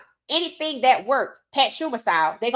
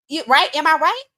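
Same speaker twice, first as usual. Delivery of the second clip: rhetorical appeal; 5 semitones higher, 6 dB louder than usual. Real, not acted.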